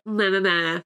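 dismissive meh meh meh; mock it as empty noise; mocking blah blah. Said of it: "and it's, like".

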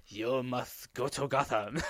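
slow, hammed-up mock Asian accent; ponderous, overdone Asian accent; over-the-top accent impression. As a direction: imitate a film warrior's exaggerated Asian accent. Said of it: "this really over-the-top where he's like".

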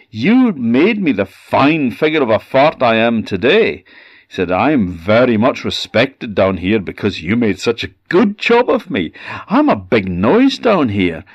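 high, proud boasting fart voice; puffed up with pride; proud fart creature. Acted.

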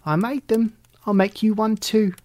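high, bright kitten pride; excited. A narrator's reading. Kitten offering her brother a popsicle, excited. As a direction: proudly offer one. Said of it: "Alley Cat said excitedly".

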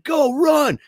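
high, retold "scatter now" call; urgent cry. Boy to his buddies as the car reverses, urgent cry. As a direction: call the gang to bolt, pitch leaping up. Friends flee the pulled-up driver.

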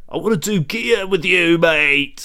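lightly put-on London geezer; London bloke pestering, barely changed; London geezer accent. Dead granddad begging grandson for gear, light London accent. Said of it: "From Lon".

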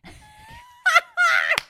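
drawn-out high wail of you okay; overdone mock invigilator check-in; exaggerated teacher. Shown as a demonstration. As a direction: stretch it out slowly and loudly, mock teacher. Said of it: "Just, just check it out".

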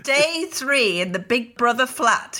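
shaky-imitation Geordie Big Brother narrator; mock Geordie, lightly put on; attempted Geordie accent. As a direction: do a rough Geordie voiceover. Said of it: "is that your Geordie accent".

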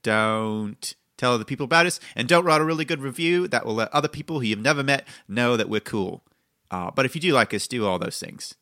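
put-on a vague mash-up of non-American accents, lightly done; host intro in a jokey made-up accent; a hammed-up mixed accent. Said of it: "that accent is just, are you trying to be Badfinger?".

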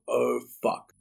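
breathless whispered oh fuck; a dismayed curse in a whisper. Retold or imitated. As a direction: mutter it under your breath in dismay. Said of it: "and I thought".

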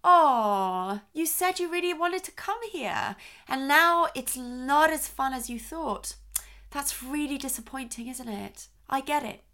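put-on gentle, validating tone to a disappointed child; empathetic acknowledgement. Shown as a demonstration. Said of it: "it might just sound something like".

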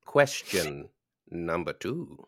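a hint of Morgan Freeman. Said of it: "I'm turning into Morgan Freeman".

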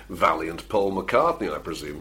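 slow, lightly put-on Scouse accent; a mock Liverpool drawl, dropping low at the end; a hint of a Scouse accent, slow and sinking. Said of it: "That's a hilarious Scouse, uh, accent there".

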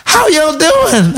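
high, drawn-out mock greeting; imitated girl's greeting. Girl greeting him as the elevator opens, imitated high greeting. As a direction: sing out a stretched, high hello as her.

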